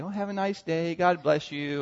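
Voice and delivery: softly syrupy, smiling; sweet little well-wish, gently put on; mock sweetness. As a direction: imitate someone being graciously forgiving. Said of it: "smile sweetly and say".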